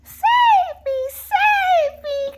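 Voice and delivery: very high, loud desperate pleas; cried. Acted. Trapped little wolf begs for rescue, desperate. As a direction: beg to be rescued. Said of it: "cried Little Wolf".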